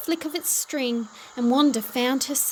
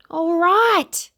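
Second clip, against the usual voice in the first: loud, higher yell; 7 semitones higher, 9 dB louder than usual. A narrator's reading. Shopkeeper yelling back at screaming Wanda, loud and exasperated. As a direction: give in with an exasperated shout. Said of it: "yelled the shopkeeper".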